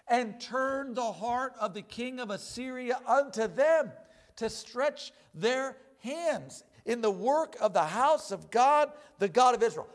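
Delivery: reads the verse steadily, a touch formal; measured Bible reading; scripture reading. Acted. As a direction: read the text aloud to the congregation.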